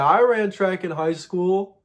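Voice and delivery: slow and assured, selling the lie; confident lie. Acted. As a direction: say it plainly as if it were true. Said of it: "I didn't run track".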